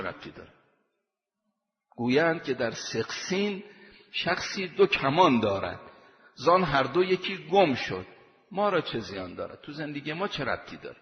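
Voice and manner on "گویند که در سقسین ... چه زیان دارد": recited like classical Persian poetry; poem recitation. Acted. Verse recited again.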